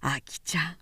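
low, unvoiced tender whisper. A narrator's reading. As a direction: call her name softly. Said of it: "藤吉がささやいた".

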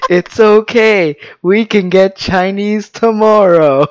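slow, soothing, laugh held back; soothing while laughing. Retold or imitated. Comforting his crying wife, slow soothing with suppressed laughter. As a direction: comfort her slowly, holding in a laugh. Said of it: "had to stop laughing and be like".

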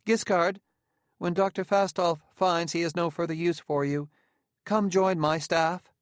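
high, carrying summons; calling out. A narrator's reading. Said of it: "Vasilia called out".

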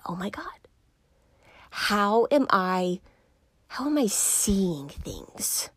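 hushed, slow whisper to herself; whispered realization. Retold or imitated. Recalling her shower thought, she whispers it in awe. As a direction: breathe it out as a quiet, awed whisper. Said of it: "I was like".

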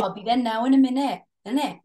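playful Welsh stock-phrase voice; light put-on Welsh accent. Shown as a demonstration. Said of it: "Can you do Welsh?".

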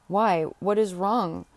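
slow, drawn-out "Why, what is wrong?"; mildly exclaimed, lingering on each word; concerned cry. A narrator's reading. Tabaret finds Ursula changed on returning, concerned cry. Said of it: "cried Tabaret".

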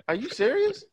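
high, disbelieving squeal; incredulous high squeak. Retold or imitated. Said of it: "I'm like".

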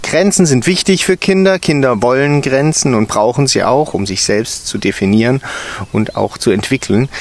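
textbook recitation. A narrator's reading. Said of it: "begann vorzulesen".

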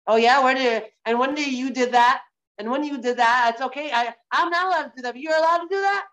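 acted defensive comeback, rising to an indignant question; mock counter-accusation, pitch climbing at the end; defensive retort.

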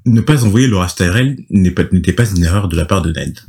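measured storytelling read; scripted recap narration. A narrator's reading. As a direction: read the recap aloud with deliberate phrasing.

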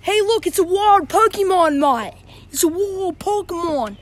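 a hint of a dopey Aussie mate; stoned guy voice. Joke teller voices the high man spotting a cat. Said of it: "He's like".

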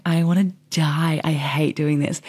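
slowed, half-whispered mock despair. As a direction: sigh it out like you're done with life. Retelling her own despair to boss.

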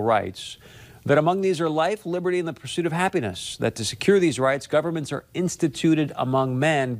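measured reading of a founding document; formal recital. Acted. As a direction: read it like a solemn civic oath. Reads Declaration of Independence aloud.

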